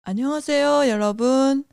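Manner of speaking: trying out an announcer-like tone; finding a C-spot voice. Shown as a demonstration. Podcast host showing listeners a new speaking tone, carefully pitched. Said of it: "I will try to find my C spot".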